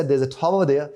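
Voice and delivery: "There's a tower there" run together, r dropped; British linked speech. Shown as a demonstration. The teacher contrasts with the quick British take. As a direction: repeat the quick British version. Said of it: "the moment I said".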